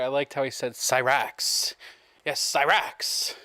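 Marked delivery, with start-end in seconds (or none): 0.7-1.7 "Cyrax" mimicked and relished; imitated pronunciation. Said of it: "I like that, the pronunciation". 2.4-3.3 "Cyrax" drawn out slowly; imitated pronunciation. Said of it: "the pronunciation".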